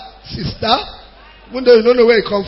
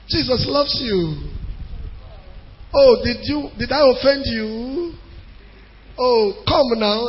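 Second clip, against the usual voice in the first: softer, slow pleading to an absent brother; coaxing plea; 6 dB quieter, slower than usual. Retold or imitated. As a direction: coax him back, gently and slowly. Coaxing absent church member.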